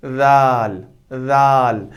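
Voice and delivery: राल said thin and light; हल्की राल; light letter demo. Shown as a demonstration. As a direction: keep राल light, not heavy. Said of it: "अब क्या है".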